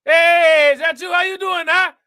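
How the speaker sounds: high, loud down-home hello; family house greeting. Retold or imitated. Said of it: "that's how I sound at everybody family house".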